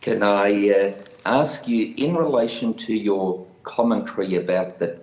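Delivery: audio fading in and out; crackly cordless phone. Real, not acted. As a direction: voice dropping out over a bad line. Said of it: "you're fading in and out".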